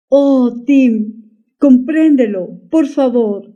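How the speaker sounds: a touch of slow, earnest pleading; mild understated begging. Acted. Wife begs her lost lover to understand, mildly pleading. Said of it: "suplicó Deidre".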